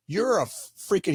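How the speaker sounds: slow, pointed retold put-down; retold emphatic jab. Conference guy insulting the speaker, slow pointed retold jab. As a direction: drag it out like you're quoting an insult. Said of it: "he said it just like this".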